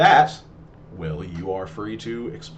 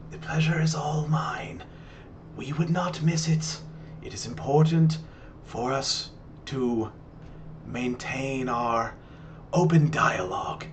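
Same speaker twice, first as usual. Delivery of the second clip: old grandmother, lightly voiced; 3 semitones higher, 3 dB quieter than usual.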